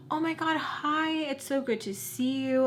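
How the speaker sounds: high, sugary mock greeting; mocking fake-friendly greeting. Mocking the friend greeting the boyfriend, sugary. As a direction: mimic her gushing hello.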